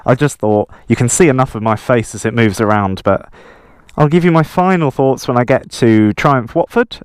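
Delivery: muffled through a helmet mic; inside a helmet. Real, not acted. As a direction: talk from inside a motorcycle helmet. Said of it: "sorry I haven't taken my helmet off".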